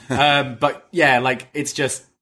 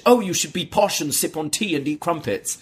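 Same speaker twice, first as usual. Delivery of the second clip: mock posh voice; 4 semitones higher than usual. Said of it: "they're not posh".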